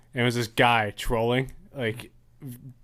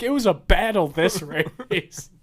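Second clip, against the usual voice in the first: higher put-on voice, laughing through it; smug troll; 6 semitones higher than usual. Troll taunting other drivers, in a high silly voice. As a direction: tease the losers in a squeaky put-on voice. Troll gloating after NASCAR race win.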